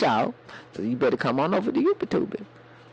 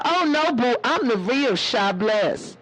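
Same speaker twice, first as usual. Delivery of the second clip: sassy fake claim; 5 semitones higher than usual. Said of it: "She go".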